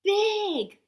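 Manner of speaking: high gleeful squeal. Acted. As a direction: squeal it like a tiny monster. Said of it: "little Gloom squealed".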